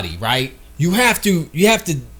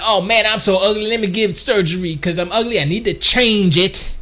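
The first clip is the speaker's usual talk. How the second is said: mock self-pity; 3 semitones higher than usual. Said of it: "They're like".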